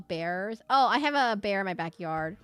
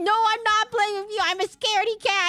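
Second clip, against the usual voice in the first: high, louder, whiny pleading to be let go; mock-scared pleading; 11 semitones higher, 8 dB louder than usual. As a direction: beg the dog to stop like a scaredy cat. Pleading with the chasing dog.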